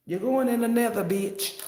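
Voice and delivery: hammed-up high loud verdict; switched-up loud voice. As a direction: cast them down with a loud cry. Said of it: "I even switched my voice up".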